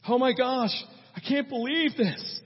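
mock dismay at being rejected; Mary, aghast mother. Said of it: "what Mary could have done".

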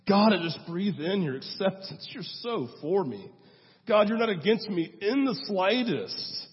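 fighting back tears; tearful prayer. Real, not acted. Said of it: "I didn't cry when I practiced this".

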